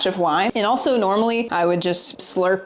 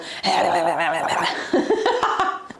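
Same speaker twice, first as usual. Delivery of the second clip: imitated creepy movie noise; 2 semitones lower than usual. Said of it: "I'll just walk around and go".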